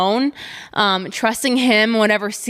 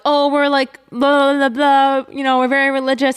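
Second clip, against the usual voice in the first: mocking landlords; 4 semitones higher than usual.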